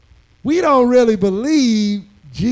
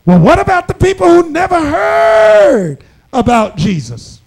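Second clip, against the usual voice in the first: higher, louder skeptical question; mock objecting believer; 4 semitones higher, 5 dB louder than usual. Preacher voicing congregation's objection, mildly mocking. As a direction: voice the churchgoer's doubt, half-mocking. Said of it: "And what do we say?".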